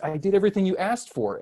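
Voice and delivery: high, fast, exasperated; exasperated plea. Retold or imitated. Dad pleading at his screaming toddler over breakfast, high and exasperated. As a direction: plead like the fed-up parent.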